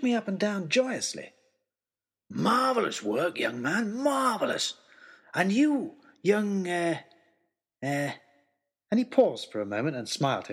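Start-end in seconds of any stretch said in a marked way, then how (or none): 2.3-8.1 put-on booming delighted old man; hearty, beaming welcome; jolly big man. Jolly giant greets them.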